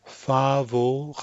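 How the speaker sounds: French FAVORABLE, R opening the last syllable; syllable break before R. Shown as a demonstration. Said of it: "syllable break as coming in front of the R".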